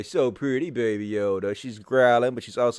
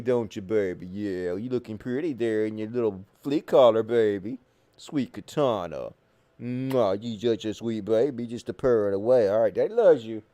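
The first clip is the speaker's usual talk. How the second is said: pet talk; 4 semitones lower than usual. Real, not acted. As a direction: coo lovingly at your pet. Baby-talking to pet cat.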